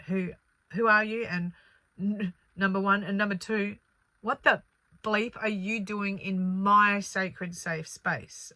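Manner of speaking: guard your sacred space; firm what-are-you-doing-here; indignant confrontation. Retold or imitated. Confronting an uninvited spirit.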